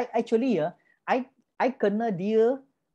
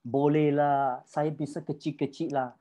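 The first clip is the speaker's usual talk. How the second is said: shy seller belittling their own small business; timid downplaying; 5 semitones lower than usual. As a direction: shrug it off modestly, dropping low. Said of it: "apa yang you cakap".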